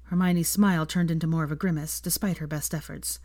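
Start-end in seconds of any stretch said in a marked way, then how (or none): none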